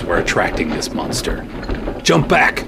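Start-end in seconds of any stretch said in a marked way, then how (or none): 2.0-2.6 sharp order to jump back; urgent command. Acted. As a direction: bark it as a command. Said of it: "I commanded".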